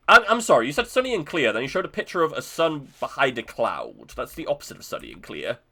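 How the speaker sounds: indignant. Real, not acted. Scolding the weather forecast.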